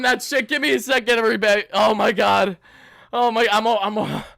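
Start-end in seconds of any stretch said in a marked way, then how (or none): none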